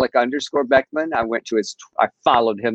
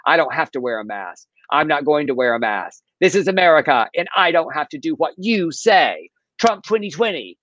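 whining Karen; 2 semitones higher than usual. Retold or imitated. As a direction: imitate an entitled customer whining and rising. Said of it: "She whines further".

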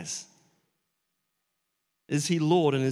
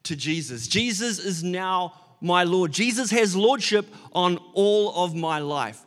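earnest devotion. Retold or imitated. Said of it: "he was meaning".

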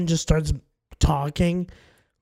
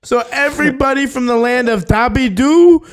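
offended indignation; 6 semitones higher, 4 dB louder than usual. Acted. Offended cashier confronts customer.

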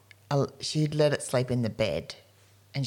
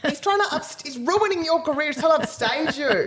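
talking to a dog; 12 semitones higher than usual. Real, not acted.

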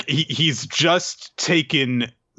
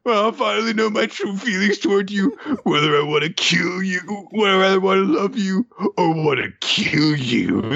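hammed-up villain; 4 semitones higher than usual. Mocking villain's dramatic speech.

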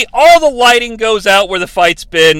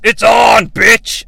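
loud hammed-up battle shout; loud mock trash-talk shout; mock yell; 4 dB louder, much slower than usual. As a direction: bark it like a monster starting a fight. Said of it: "he yells".

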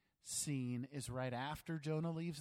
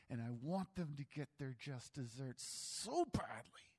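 hushed confession; whisper. Real, not acted. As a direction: whisper it as a guilty admission. Confessing desire for revenge.

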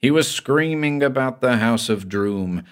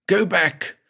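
pleading; 9 semitones higher than usual. Acted. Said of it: "Then he began to plead".

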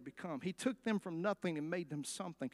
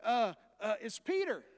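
put-on higher, halting little girl stammer; 5 semitones higher than usual. Girl runs back to the praying church, stammering higher. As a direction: stumble over the news, awestruck. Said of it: "she goes back and says".

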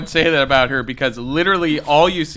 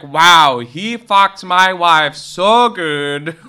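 sarcastic awe; 5 semitones higher, 7 dB louder, much slower than usual. Retold or imitated. Sarcastic mock quote, very slow.

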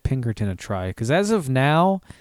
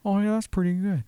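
high, whispered Owen Wilson pleading; hushed, upset plea about the ticket; imitating Owen Wilson getting a parking ticket; whispering Owen Wilson; 5 semitones higher, 4 dB quieter than usual. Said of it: "Why is he whispering now?".

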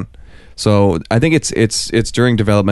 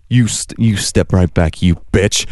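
mock stern warning. Scolding travelers who return with accents, mock stern.

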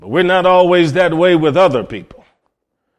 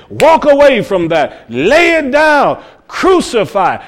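voice of God's Spirit; 7 semitones higher, 3 dB louder than usual. Acted. Spirit of God speaking to sinner.

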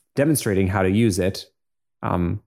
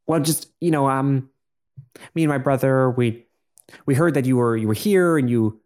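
bubbly voice; 3 semitones higher than usual. Acted. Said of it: "with a bubbly voice says".

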